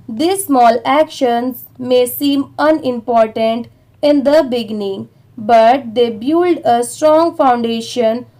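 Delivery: very slow, chunked reading with pauses between phrases; slow read-aloud. Shown as a demonstration. English teacher reading the paragraph to Hindi learners, very slow and chunked. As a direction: read it out word by word for learners to follow. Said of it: "एक बार इसे भी थोड़ा थोड़ा करके पढ़ते हैं".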